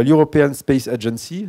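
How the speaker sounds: slow, careful English accent on European Space Agency. Shown as a demonstration. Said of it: "vous apprécierez mon accent".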